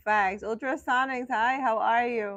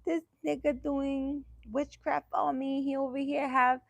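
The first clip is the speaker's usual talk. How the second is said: higher-voiced mock complaint; put-on voice of a scandalised fiancee; imagined suspicious fiancee; 4 semitones higher than usual. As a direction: act out an alarmed partner tattling. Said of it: "She coulda been like".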